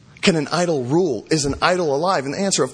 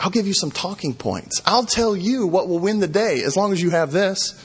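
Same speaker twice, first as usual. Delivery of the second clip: sarcastic; 5 semitones higher than usual. Acted. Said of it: "he's getting very sarcastic".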